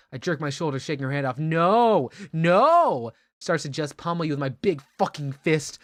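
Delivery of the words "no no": drawn-out, louder cries of protest; hammed-up refusal. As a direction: refuse with mock rage. Character refuses to calm down.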